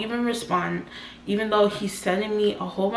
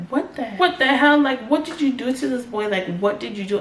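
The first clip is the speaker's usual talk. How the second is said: higher and faster, imitating a panicked mom; freaked-out mom; 4 semitones higher, faster than usual. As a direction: play the alarmed mother, rushed and higher. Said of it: "my mom's freaked out".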